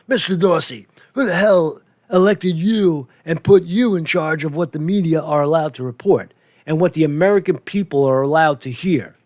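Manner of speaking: hammed-up senator grilling a CEO; thundering senator. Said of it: "he thundered".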